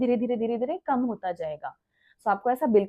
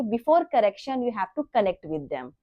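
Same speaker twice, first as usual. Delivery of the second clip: slow motto; much slower than usual. Shown as a demonstration. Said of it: "So हमेशा याद रखिए".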